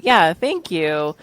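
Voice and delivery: slow, receptive thanks; unhurried, accepting thanks; taking it in. Shown as a demonstration. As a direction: take a second to let the compliment land. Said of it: "really taking a second to receive that".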